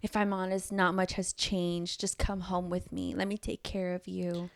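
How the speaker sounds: low, soft retold declaration; hushed, understated romantic plea; tender confession.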